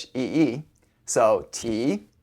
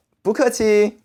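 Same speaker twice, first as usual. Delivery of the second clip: higher, lightly acted polite reply; gracious reply; 8 semitones higher, 4 dB louder than usual. Host replying to a friend's thanks for dinner, lightly acted graciousness. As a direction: brush off the thanks in a raised pitch.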